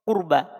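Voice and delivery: kurba with a heavy vowelless r; thick ra. Shown as a demonstration. Teacher gives the example after dhammah, thick ra. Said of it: "ini juga dibaca tebal".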